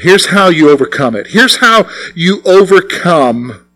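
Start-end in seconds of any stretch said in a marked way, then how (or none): 1.3-3.6 slowed down, every word weighed; slow, deliberate preacher emphasis. Shown as a demonstration. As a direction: lean into it slowly for weight. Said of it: "This is so important".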